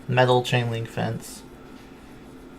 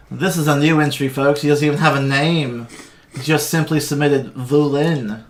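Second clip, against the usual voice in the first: arena announcer; 2 semitones higher, 4 dB louder than usual. Acted. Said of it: "He goes".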